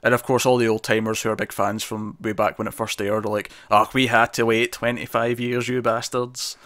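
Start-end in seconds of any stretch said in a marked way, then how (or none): 3.7-6.6 slow, mock old Scottish grumble; Scottish old man voice. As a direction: imitate a grumpy old Scotsman from Scotland. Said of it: "I did a really Scottish old man voice there".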